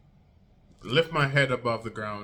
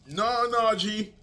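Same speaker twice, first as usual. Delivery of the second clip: insistent refusal; 8 semitones higher, slower than usual. Retold or imitated. Friend insisting on carrying him ashore.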